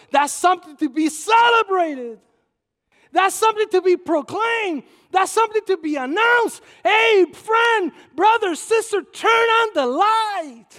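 rousing sermon shout, slowing on the last line; preaching at full force. Acted. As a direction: proclaim it to the congregation.

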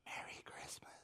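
whispered tiny voice; barely whispered shy greeting. Retold or imitated. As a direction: breathe it like a sheepish little whisper. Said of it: "a little tiny voice said".

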